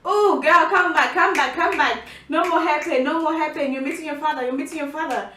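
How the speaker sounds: quick, repeated self-coaxing, starting loud; rally yourself in a light mock panic; mock urgent pep talk. Telling herself to come back before meeting father, mock urgency.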